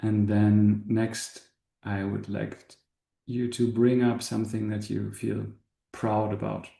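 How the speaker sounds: calm guide, long pauses between short phrases; spacious meditation voice, settling at phrase ends; guided meditation. Acted. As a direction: gently lead an inward contemplation, unhurried. Leads a meditation.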